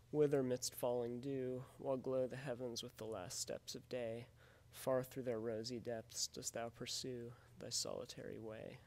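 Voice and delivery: loud, measured recitation of verse; poem read aloud to show the meter. Acted.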